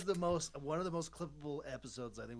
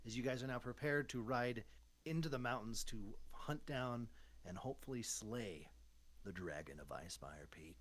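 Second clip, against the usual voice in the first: game master's narration; slower than usual. Acted. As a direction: build gravity by sinking toward a hushed finish.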